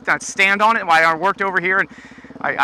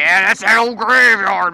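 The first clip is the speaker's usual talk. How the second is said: spooky storyteller; 3 dB louder, slower than usual. Pretend. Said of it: "it sounds better to say".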